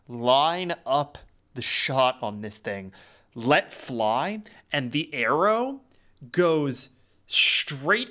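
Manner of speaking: animated play of the action, pausing for suspense; game master's action narration. Acted. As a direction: build the shot, then let it fall away.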